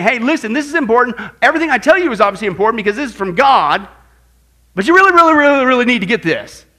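rising to a loud, urgent plea; emphatic voice of God. Acted. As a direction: hammer home that this matters.

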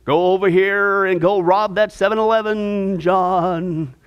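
whisper-call John toward the robbery, low and coaxing; tempting ghost voice. Pretend. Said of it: "you hear this voice".

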